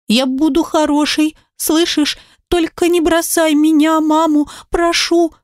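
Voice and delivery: put-on little girl's earnest plea. Daughter begs father.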